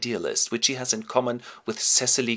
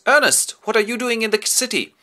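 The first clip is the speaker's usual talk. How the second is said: high, loud surprised hello; Algy greeting his friend; 13 semitones higher, 6 dB louder than usual. Acted. Algy surprised to see his friend in the city. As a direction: call out to an old friend. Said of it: "and Algy goes".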